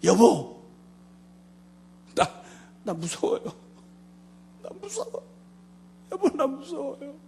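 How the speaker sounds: high, tearful wife voice; wife sobbing on the phone; imitating crying wife. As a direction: plead frightened through tears. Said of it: "울다가 뭐라고 하니".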